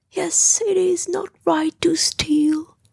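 high, attempted sternness; stern. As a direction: try hard to sound stern. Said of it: "said Pooh as sternly as he could".

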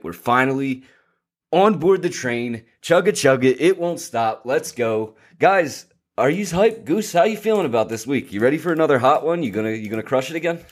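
amped-up hype, pitch way up; hyped frat bro. Real, not acted. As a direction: pump the crew up like a frat bro. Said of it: "I am hyped".

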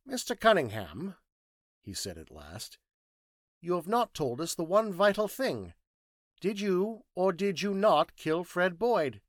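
pointed, high-pitched interrogation; Thinking Machine, insistent questioning. Acted.

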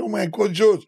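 high mock fan cry of the name; imitating shouting women. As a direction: pitch it way up like starstruck fans. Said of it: "Women, they were shouting".

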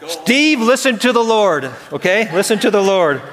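mock scolding a friend while laughing; laughing tease. Real, not acted. Pastor ribbing Steve about a Packers bobblehead, laughing. Teasing Packers fan in church.

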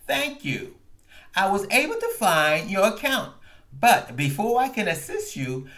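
a hint of an automated menu voice; lightly voiced phone robot. Retelling the call, a light robotic phone menu voice.

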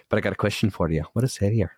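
lightly put-on Scottish voice; mock Scottish, near own pitch; Scottish accent. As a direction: imitate the Scottish video riddle. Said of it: "You do a pretty good act".

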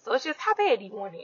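hiccuping mid-sentence; with hiccups. Real, not acted. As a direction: talk through the hiccups. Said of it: "Sorry, I got the hiccups".

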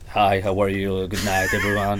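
hushed, toneless celebrity greeting; Michael Jackson. Retold or imitated. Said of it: "Michael Jackson speaking like".

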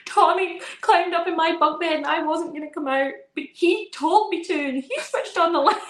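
put-on little boy. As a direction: whine it like a small boy explaining. Son's retold complaint to mum.

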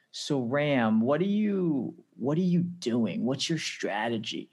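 imitating an American with a shaky grasp of the accent; poor US accent. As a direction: have a rough go at an American accent. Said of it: "I know that was a poor U-, U S accent".

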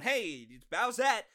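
slow, loud announcing it; excited reveal. Pretend. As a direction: present it like a big reveal.

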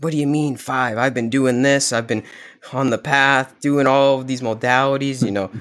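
a hint of a furious meditating monk; angry monk. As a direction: retell the monk's outburst with mild mock anger.

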